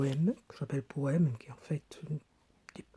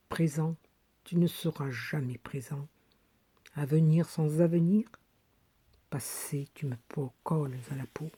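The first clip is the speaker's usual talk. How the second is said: poem recitation. Acted. Woman reads her 1974 poem of broken heart, measured recitation. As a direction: recite it phrase by phrase, long pauses between.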